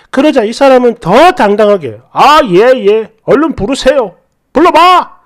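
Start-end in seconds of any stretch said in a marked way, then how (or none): 2.1-5.1 taunting. Retold or imitated. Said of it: "으름장을 놓더라고요".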